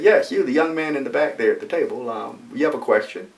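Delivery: mildly excited, calling on someone; excitedly. Retold or imitated. Professor calling on the student at the back, excitedly. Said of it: "So he excitedly said".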